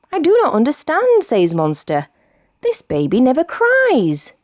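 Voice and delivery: high puzzled monster voice; baffled. Acted. Monster confused by crying baby, baffled. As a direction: sound at a total loss.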